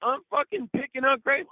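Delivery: high, mock outraged squeal; hammed-up what the fuck; mock outrage. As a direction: go up high in disbelief. Retold outrage at the guy.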